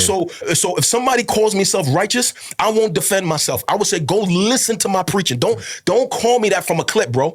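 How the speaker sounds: fervent, pleading sermon cadence; impassioned preaching. Real, not acted. Pastor urging brothers and sisters back to scripture, impassioned preaching. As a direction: drive each repeated appeal home like a preacher.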